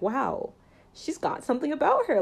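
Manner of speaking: high, quick burst of acted admiration; growing awe. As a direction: play it freshly won over, pitch leaping up.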